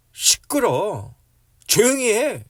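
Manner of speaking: loud, high, drawn-out scolding; browbeating shout. Acted. Crowd hushing the blind beggar, browbeating shout. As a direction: silence him with an angry yell. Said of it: "윽박질렀던 거예요".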